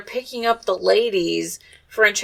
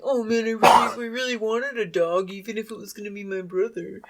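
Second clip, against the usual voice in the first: lightly voiced kid, disappointment fading softer; disappointed kid; 4 dB quieter than usual. Little brother who really wanted a dog, mildly mock disappointed. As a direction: let the complaint sink quietly, like a let-down little boy. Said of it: "He's super disappointed".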